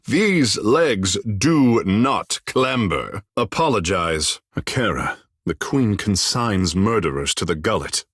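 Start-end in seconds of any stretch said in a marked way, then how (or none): 0.1-3.2 laughing. Acted. Amused retort to a question.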